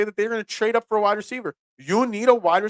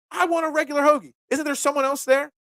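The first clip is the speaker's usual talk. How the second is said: mock caller; 9 semitones higher than usual. Customer's speakerphone friend voiced.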